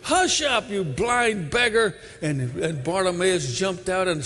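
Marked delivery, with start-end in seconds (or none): 0.0-2.0 crowd hushing. Acted. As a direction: shush the beggar sharply and impatiently.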